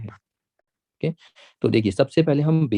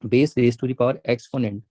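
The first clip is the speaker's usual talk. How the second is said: slow, deliberate model reading; teacher modelling the phrase slowly; slow reading demo; much slower than usual. Shown as a demonstration. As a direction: say each word slowly like dictation. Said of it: "read किया जाता है".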